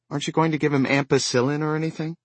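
worried wife. Acted.

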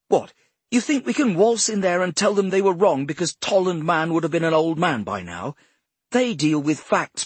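high, loud furious tirade; furious shouting. Acted. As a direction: tear into him, shouting. Boss furiously berates Poe.

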